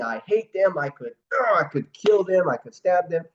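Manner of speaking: a hammed-up angry outburst; retold furious yelling. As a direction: shout it like you want to stab them. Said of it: "He was yelling".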